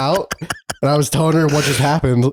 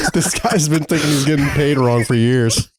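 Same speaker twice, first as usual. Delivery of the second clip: laughing; 4 semitones higher than usual. Real, not acted. Laughs at coworker story.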